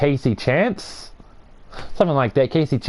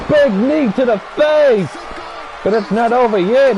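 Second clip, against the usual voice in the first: raised, excited wrestling commentary; play-by-play call; 8 semitones higher than usual. Pretend. Commentator calling a big knee in the match, excited play-by-play. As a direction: call the big move with rising pitch.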